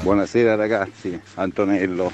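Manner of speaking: slightly out of breath after a jog. Real, not acted. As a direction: talk while catching your breath, out of breath. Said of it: "Scusate il leggero fiatone".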